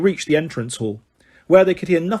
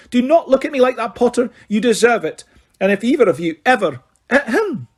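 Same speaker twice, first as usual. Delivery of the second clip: high, raised stern reprimand; stern Scottish professor; 6 semitones higher than usual. Acted. McGonagall giving Harry and George detentions, stern. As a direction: lay down the law.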